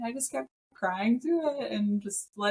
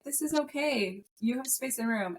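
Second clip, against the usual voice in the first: soothing parent voice; 3 semitones higher, 3 dB quieter than usual. Retold or imitated. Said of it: "parent part of my brain was like".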